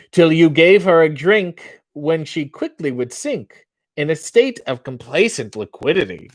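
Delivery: lightly put-on posh British accent, reciting; an American pretending to be British; mock British theatre accent. Reading limericks to the chat in a mock British accent. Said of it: "The accent is like Madonna".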